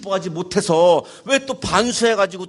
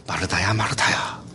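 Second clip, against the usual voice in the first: low, hushed call by name; quiet, tender reproof, pitched low; gentle admonishing; 11 semitones lower, 4 dB quieter than usual. Retold or imitated. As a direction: call her softly, as if reasoning with her. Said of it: "타이르는 것 같아요?".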